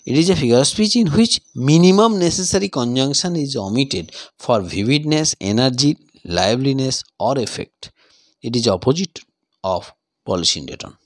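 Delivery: unhurried classroom dictation; slow dictation. Shown as a demonstration. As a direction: read the definition very slowly, word by word. Dictates the definition.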